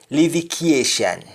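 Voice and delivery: livication as "livi-kyeh-shan"; Rastafari pronunciation. Shown as a demonstration. Teacher showing Rastafari wording, livication ending in "shan". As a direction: glide after the K in livication, end on "shan". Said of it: "Although Rastafari".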